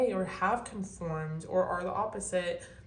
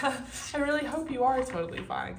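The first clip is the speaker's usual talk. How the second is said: higher, laughter carrying into the words; laughing; 6 semitones higher, 4 dB louder than usual. Real, not acted. Reader wishing viewers are totally fine, laughing. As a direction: say it through a real laugh.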